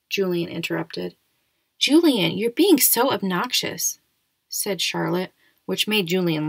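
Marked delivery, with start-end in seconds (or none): 1.8-4.0 put-on higher, slow scolding of a rude boy. Charlotte scolds Julian for being obnoxious, drawn out and high. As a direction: tell him off, drawn out.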